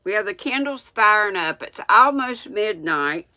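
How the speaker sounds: talking without teeth in; gummy toothless speech. Real, not acted. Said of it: "I forgot I don't have my teeth in".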